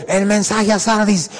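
slow, forceful single call; strong single call. Retold or imitated. Preacher imitates God calling once, slow and forceful. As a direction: say it once, with power. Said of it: "Solo una vez, fuerte".

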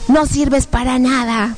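slow, drawn-out accusation; imitating a demon's taunt; horrible demon voice. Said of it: "unas voces horribles que decían".

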